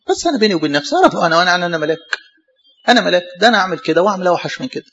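humble penitent. Retold or imitated. Voicing a humble sinner.

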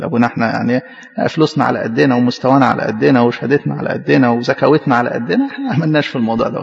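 mock the modest-sounding boaster; a lightly voiced churchgoer shrugging off pride; self-satisfied churchgoer. Mimics a complacent churchgoer.

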